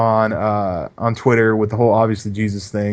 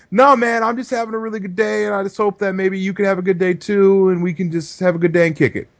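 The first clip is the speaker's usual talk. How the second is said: much higher, bubbly good-vibes voice; overly cheerful reply; 7 semitones higher than usual. Retold or imitated. Replying to a grumpy tweeter, overly cheerful and high. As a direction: lay the sunny enthusiasm on thick.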